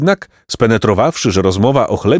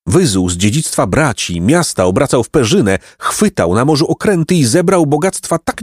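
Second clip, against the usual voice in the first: put-on higher-pitched old man, fervent; old man recounting; 7 semitones higher than usual. A narrator's reading. Golden old man recounting prince's crimes, fervent. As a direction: tell it intensely, pitch climbing.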